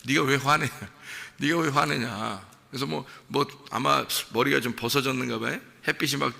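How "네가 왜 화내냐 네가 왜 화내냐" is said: amused rebuke. Retold or imitated. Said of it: "하나님이 나중에 뭐라 그래요?".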